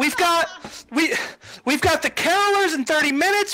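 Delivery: high hurried rundown; high fussy coordinator; busy organizer. Acted. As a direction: rattle off the schedule. GM voices coordinator listing schedule.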